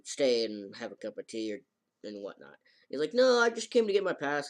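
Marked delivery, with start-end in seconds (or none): 3.1-4.5 high protest. Retold or imitated. He refuses tea.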